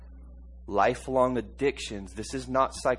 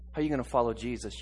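normal talking voice

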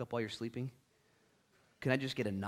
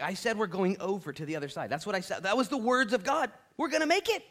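rising to a much higher, louder declaration; Jesus insisting; 8 semitones higher, 6 dB louder than usual. Retold or imitated. Jesus reminding panicked disciples, building to a high loud shout. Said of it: "And he's like".

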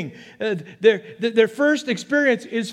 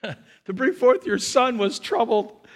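laughing; slower than usual. Real, not acted. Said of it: "I'm having a moment of myself".

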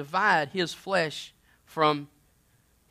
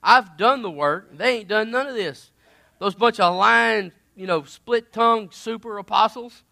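boastful rant; 3 semitones higher, 6 dB louder than usual. Acted. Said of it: "he says".

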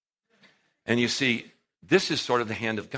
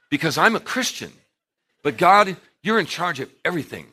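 mock prayer; 4 semitones higher, 8 dB louder than usual. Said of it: "Christians pray prayers like this".

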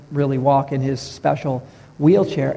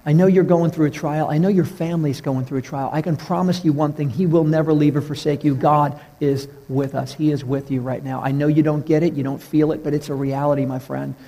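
tender comfort. Retold or imitated. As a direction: comfort a grieving man gently. Consoling the clerk by name.

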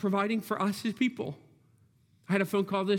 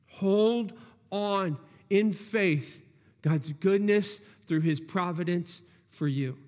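slow plea. Acted. Pastor urges the hurting congregation.

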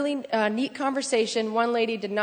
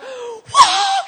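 a high, loud laughing whoa; excited whoa; 11 dB louder than usual. Retold or imitated. Calling her craziest church friend, a loud thrilled whoa. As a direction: shout it out in sheer thrill. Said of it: "I'm like".

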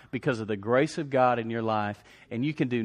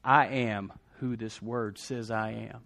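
slower and softer, firm belief; quiet, sincere declaration; 3 semitones lower, 5 dB quieter, slower than usual. Real, not acted. Preacher softly affirming his identity to the church. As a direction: say it low and certain, like a vow.

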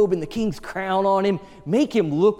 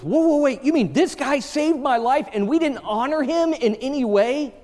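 high, urgent disbelief, mock-royal; startled king; 8 semitones higher than usual. Preacher voicing the king's shock at a forgotten honor, high and startled. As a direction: pull up short like a stunned king.

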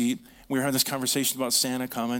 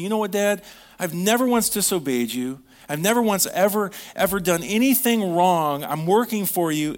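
resentful complaint; 5 semitones higher, 4 dB louder than usual. Retold or imitated. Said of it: "But I just picture the son saying".

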